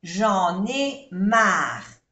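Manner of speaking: "J'en ai marre" very slow, linking j'en into ai; liaison. Shown as a demonstration. Teacher showing liaison in "J'en ai marre", slowly. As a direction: glide "J'en ai" together as one. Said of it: "Hacemos la unión, la liaison".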